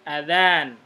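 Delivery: Azan said again with a short, clipped first a; short vowel demo, repeated. Shown as a demonstration. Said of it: "Jadi, A-nya pendek".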